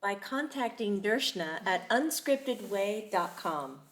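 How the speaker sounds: slow, polished radio announcer read. Pretend. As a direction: sign off like a radio host. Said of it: "That was my announcer voice".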